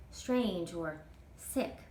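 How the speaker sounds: slow, drawn-out worry; girl brooding about Horace; slow inner thought. Acted. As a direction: think it slowly to yourself. Girl's worried thought.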